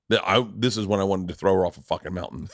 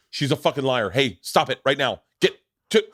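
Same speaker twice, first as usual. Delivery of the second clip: panicked scolding; 3 semitones higher than usual. Retold or imitated. Dad acting like a kidnapper at security, rising scolding. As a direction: build from a protest to a sharp order. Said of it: "I behave like a person who's kidnapping a child".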